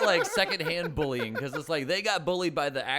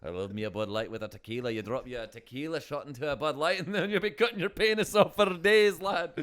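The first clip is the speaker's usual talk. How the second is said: put-on Irish accent. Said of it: "Irish arguing booze".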